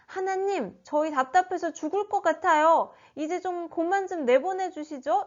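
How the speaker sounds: complaining. Acted. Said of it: "이렇게 불평을 했을까요?". (답답해서 불평하는 말투)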